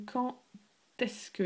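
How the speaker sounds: quand est-ce que with the d sounded as a T into est; linked T sound. Shown as a demonstration. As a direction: say "quand" linking with a T. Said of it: "it's a T sound".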